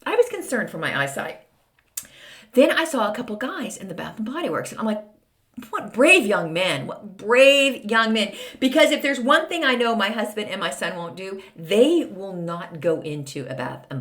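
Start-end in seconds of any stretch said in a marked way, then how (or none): 5.7-8.3 mock admiration. Teasing men in Bath and Body Works.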